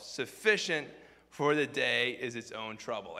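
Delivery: emphatic scripture reading with drawn-out phrases; preacher declaiming a Bible passage. Acted. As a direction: read it out to a congregation, punching the key words.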